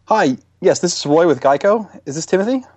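a hint of an insurance PR man, pushy; customer service rep. Prank caller posing as Geico rep.

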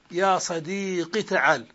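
صديق ends in a short i, slow; kasra ending. Shown as a demonstration. Teacher giving the most eloquent form, kasra ending. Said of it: "حذف الياء وكسر ما قبلها".

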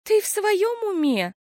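high, slow groaning question; moaning. A narrator's reading. Sister moans at her sister's outburst. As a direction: moan it out. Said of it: "простонала Пиппа".

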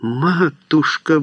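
high, drawn-out cry of horror; horrified cry. A narrator's reading. Julia appealing to her mother, horrified exclamation. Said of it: "в ужасе воскликнула Хулия".

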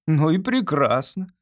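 slow, cool and dismissive; cold retort. A narrator's reading. Artist coldly dismissing Olga's sigh, slow and cool. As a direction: shrug her off.

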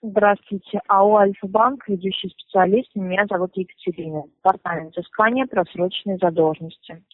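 formal scripted phone greeting; customer service voice. Acted. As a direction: rattle off the company intro. Scripted collector introduction.

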